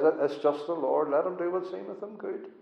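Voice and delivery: a hint of Eli bowing to God's will; humble Eli. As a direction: speak as a humbled old priest, hushed. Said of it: "as humble man and says".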